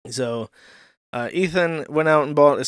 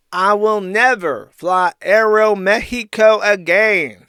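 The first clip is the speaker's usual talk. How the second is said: hammed-up furious rant, louder and slow; mock angry rant; 4 semitones higher, 6 dB louder, slower than usual. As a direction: read the tweet like an outraged drunk. Reading Ralph's angry tweet.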